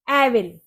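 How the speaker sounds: एविल with short "eh" and "vil"; mistaken pronunciation. Shown as a demonstration. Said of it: "एविल पढ़ोगे?". (एविल, "ए" और "विल" से)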